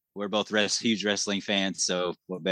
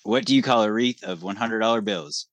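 telling a dad joke. Shown as a demonstration. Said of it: "All right".

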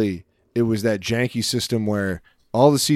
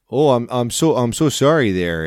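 mock Canadian apology; 3 semitones higher than usual. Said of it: "two sentences of Canadian".

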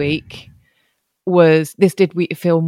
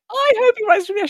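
high, lofty mock-solemn voice; mock spiritual; faster than usual. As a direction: soar up like a prophet. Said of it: "spiritual journey".

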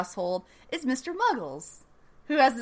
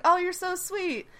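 mock Southern mom; 4 semitones higher than usual. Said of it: "She's just like".

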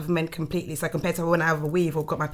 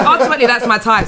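laughing; 5 semitones higher, 9 dB louder than usual. Real, not acted. Laughing while talking.

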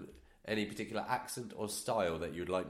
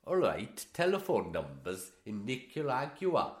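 bad Welsh accent; 3 semitones higher, 5 dB louder, slower than usual. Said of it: "This is appalling".

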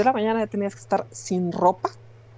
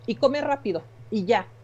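bossy nurse; 4 semitones higher, 3 dB louder than usual. Retold or imitated. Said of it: "una enfermera".

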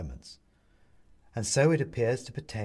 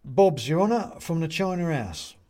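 high, raised voice to the judge; little china man; 7 semitones higher, 5 dB louder than usual. Acted. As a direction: announce yourself to the court. Bobs addresses the judge respectfully.

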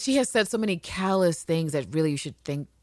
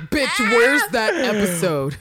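mock demanding fans; 3 semitones higher, 5 dB louder, slower than usual. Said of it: "the Well Well listeners are like".

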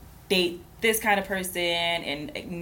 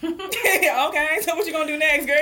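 put-on higher, louder challenging girl; skeptical sass; 8 semitones higher, 4 dB louder than usual. Challenging a friend on her next move, higher and sassy. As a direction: call her out with a raised brow. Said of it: "the look on my face be like".

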